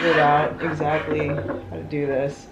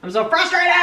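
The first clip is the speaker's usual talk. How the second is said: high, strained cry of frustration; frustrated outburst; 12 semitones higher than usual. Real, not acted. Venting to viewers about the music shop, a high frustrated cry. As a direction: let the frustration burst out up high.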